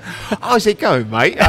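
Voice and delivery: high, slow, laughing fake British; mock British accent. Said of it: "it's straight up like".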